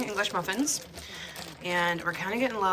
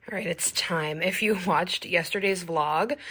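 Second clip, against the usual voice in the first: ordinary talk, nothing marked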